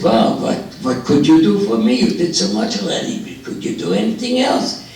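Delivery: put-on high, lilting Jewish old man; Jewish accent. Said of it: "drop the Jewish accent".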